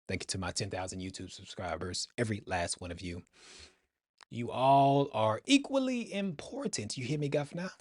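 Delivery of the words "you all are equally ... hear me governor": put-on English accent. YouTuber thanking every last subscriber, in a put-on English accent. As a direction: put on a hammed-up English accent, pitched high. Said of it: "went into an English accent".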